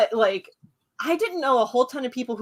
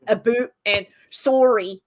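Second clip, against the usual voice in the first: Canadian vowels. Retold or imitated. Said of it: "Canadian YouTubers".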